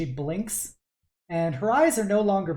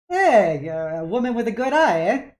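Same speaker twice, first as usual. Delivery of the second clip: loud, higher, quick compliment; hearty dad; 6 semitones higher, 8 dB louder than usual. Acted. Dad praising the customer's taste, loud and hearty. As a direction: boom it out proudly.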